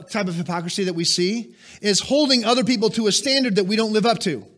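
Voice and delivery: ordinary talk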